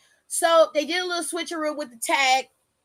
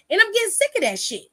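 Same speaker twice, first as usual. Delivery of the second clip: fed-up outburst; 6 semitones higher, faster than usual. Retold or imitated. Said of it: "What really pisses me off".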